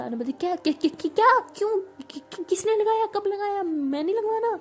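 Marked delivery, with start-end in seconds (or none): 0.3-0.9 a louder, higher stammered what; startled. Acted. Shocked by the injection. 1.0-4.6 much higher, much louder outraged shriek; shrieking shock. Acted. Shocked outrage over injection.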